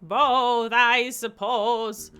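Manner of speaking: put-on drawn-out, booming old official; old mayor voice. Mayor answers solemnly.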